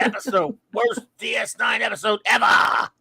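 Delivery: shouted Comic Book Guy verdict. Retold or imitated. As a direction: proclaim it like a smug shop clerk. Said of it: "In voice of, of Simpsons, uh, comic seller".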